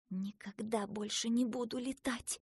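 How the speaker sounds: softly spoken private vow; thinking to oneself, hushed; inner thought. A narrator's reading. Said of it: "подумала она".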